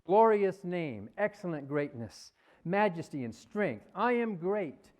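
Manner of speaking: lightly voiced self-exalting deity, emphatic openings; megalomaniac God. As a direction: proclaim your own glory like a mock almighty. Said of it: "Who talks like that".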